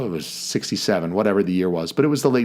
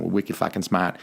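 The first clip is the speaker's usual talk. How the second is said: playful Boston accent, "smart" with a dropped R; hammy Boston accent, a bit softer; 2 semitones lower, 4 dB quieter than usual. Shown as a demonstration. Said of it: "working on my, uh, Boston accent".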